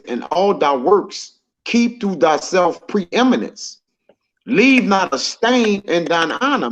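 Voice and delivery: slow, measured scripture read. Acted. Teacher reads the verse to the group, slow and measured. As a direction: lay each phrase down slowly.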